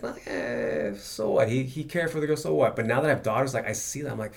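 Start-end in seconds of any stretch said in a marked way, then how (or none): 0.0-2.7 dismissive shrug. Retold or imitated. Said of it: "I wouldn't be like".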